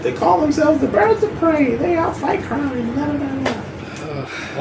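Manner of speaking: high, slowing announcer voice trailing off; old newsreel announcer winding down; 1930s announcer. Retold or imitated. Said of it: "nineteen thirties announcer voice".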